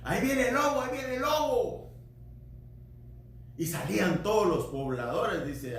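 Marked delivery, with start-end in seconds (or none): 0.0-1.9 put-on boy crying wolf. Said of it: "aquel niño que decía".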